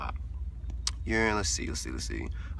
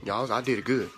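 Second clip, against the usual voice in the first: confiding servant; 2 semitones lower than usual. Pretend. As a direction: confide in the audience behind the boss's back. Servant confides in audience secretly.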